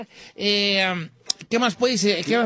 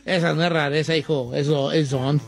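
put-on very old man; 8 semitones lower than usual. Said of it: "Puede hablar como viejito".

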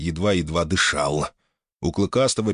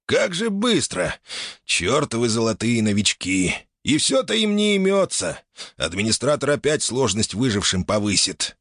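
put-on grumbling old man; 3 semitones higher than usual. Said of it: "Старикашка недовольно сплюнул".

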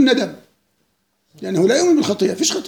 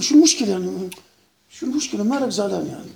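casual indifference; 5 semitones lower, 5 dB quieter than usual. Retold or imitated. Westerner unbothered by being called liar.

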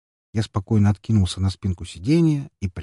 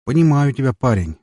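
smirking driver; 5 semitones higher, 5 dB louder than usual. A narrator's reading. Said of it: "хмыкнул таксист".

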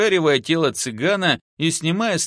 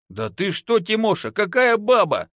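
high-pitched disbelief; stunned, incredulous protest; dumbfounded; 7 semitones higher than usual. A narrator's reading. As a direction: balk at an absurd offer. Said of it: "остолбенел тот".

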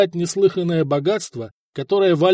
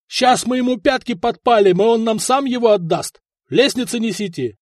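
high, raised-voice orders; barked threat; 6 semitones higher, 3 dB louder than usual. A narrator's reading. Duke sending soldiers for ladders, barking. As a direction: threaten loudly while rallying the men. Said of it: "рявкнул герцог".

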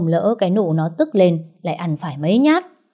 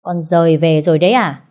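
louder, cold and dismissive; scornful; 5 dB louder than usual. Acted. Grandma greeting Nụ coldly, scornful and dismissive. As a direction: toss it at her with contempt. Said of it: "với cái giọng điệu hắt hủi".

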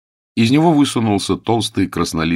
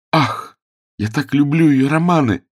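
high, louder gushing delight; ecstatic; 8 semitones higher, 4 dB louder than usual. A narrator's reading. Rosa gushes to James about his aunt's novels, ecstatic. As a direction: swoon over the books you adore. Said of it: "в экстазе всплеснула руками девушка".

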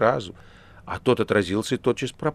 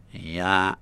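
nasal voice; 4 semitones lower than usual. A narrator's reading. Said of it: "Рыжий гнусавил всё больше и больше".

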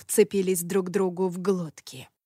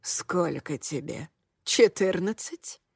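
put-on old woman voice; 2 semitones lower, 5 dB quieter, slower than usual. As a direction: ask it as a scornful old noblewoman. Old lady Hanshu voiced.

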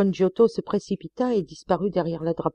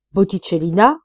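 loud anguished cry of her name; cried out name; 2 semitones higher, 7 dB louder than usual. A narrator's reading. The painter crying out to his friend, loud anguished cry. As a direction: call out the name in pain. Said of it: "cria le peintre".

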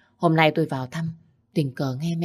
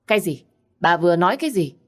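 stunned disbelief; 5 dB louder, faster than usual. Acted. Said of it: "Ông Minh sững sờ".

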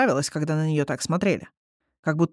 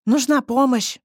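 higher, louder urgent call; 6 semitones higher, 4 dB louder, slower than usual. Acted. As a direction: call out for help. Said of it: "просигналила Фыся".

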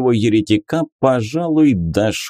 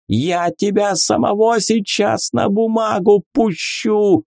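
roaring priest; 11 semitones higher than usual. A narrator's reading. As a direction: roar the threat at him. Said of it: "взревел жрец".

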